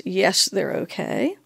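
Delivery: a slow, understated hint of sarcasm retold; imitating her dry, sarcastic reply lightly; mildly sarcastic. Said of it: "in a very sarcastic tone of voice".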